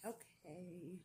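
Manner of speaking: soft, resigned retold giving-in; sigh, then give in quietly, imitating them; mock reluctant compliance. Staff giving in to receptionist.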